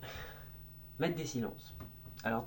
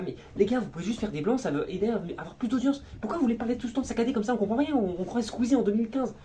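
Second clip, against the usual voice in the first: much higher and louder, fed up; exasperated rant; 9 semitones higher, 6 dB louder than usual. Retold or imitated. Complaining to YouTubers about their choppy speech, exasperated. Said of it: "Je suis là".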